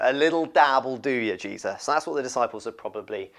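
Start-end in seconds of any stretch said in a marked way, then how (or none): 0.0-1.9 louder mock American accent; awful American accent. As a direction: say it in a badly imitated American accent. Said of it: "That's an awful American accent".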